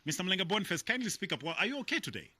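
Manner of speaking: to someone hard of hearing. Real, not acted. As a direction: raise your voice so the caller hears. Caller too quiet on phone.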